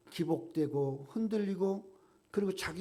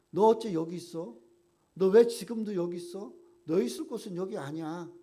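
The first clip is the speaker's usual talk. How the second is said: emphatic; 4 semitones higher, 7 dB louder than usual. Acted. Preacher voicing God's rebuke.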